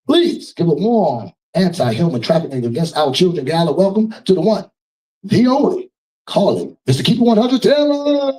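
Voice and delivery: ring-announcer style, pitch climbing to the final name; announcer's big build-up. Real, not acted. Host calling the singer up at a charity gala, climactic announcer voice. Host calls artist onto stage.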